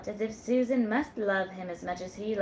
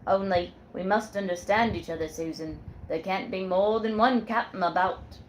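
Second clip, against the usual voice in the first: put-on a firm old sailor, a bit louder; sailor Jack; 4 dB louder than usual. Sailor Jack tells Susan who's captain, firmly. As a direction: lay down the law like a ship's captain.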